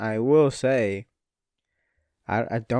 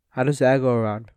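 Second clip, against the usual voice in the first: yawning; faster than usual. Real, not acted. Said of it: "Sorry, I'm fucking yawning".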